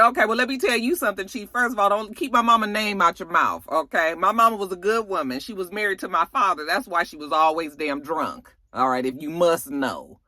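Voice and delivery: fast, indignant telling-off; a light imitation of her snapping back; mock angry comeback. Investigator telling off the chief while handing in badge, indignant. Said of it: "She was like".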